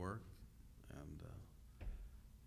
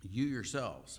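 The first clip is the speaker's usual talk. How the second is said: YOU yourselves, hit the YOU firmly; "You yourselves" with a firm stress on You; emphatic you; 2 semitones higher, 5 dB louder, slower than usual. Shown as a demonstration. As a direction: lean hard on "You" to grab attention. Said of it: "this seems to be emphatic".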